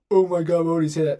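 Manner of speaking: imitating offended fans gasping; mock shocked. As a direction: ham up the scandalized crowd. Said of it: "Everyone's like".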